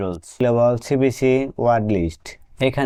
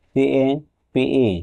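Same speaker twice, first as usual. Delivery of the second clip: very slow, letter-by-letter spelling of সিএপিই; much slower than usual. Shown as a demonstration. Teacher spells a word for students, drawn out letter by letter. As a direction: stretch out each letter of সিএপিই. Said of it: "ক্যাপ".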